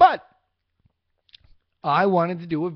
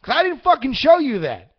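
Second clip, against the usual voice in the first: high and loud, playfully heated; a hammed-up big-brother rant, pitched up; mock angry rant; 7 semitones higher, 4 dB louder than usual. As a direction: scold the kid brother, half joking. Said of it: "Now I'm getting angry".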